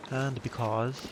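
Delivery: "because" said in an American accent; a failed British try that sounds American; plain American accent on "because". Shown as a demonstration. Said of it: "no, that's American".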